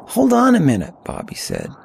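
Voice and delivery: put-on high-pitched winded young hiker; winded teenager. A narrator's reading. Winded teen asking companion to wait, high voice. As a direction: pitch it up, calling for a halt.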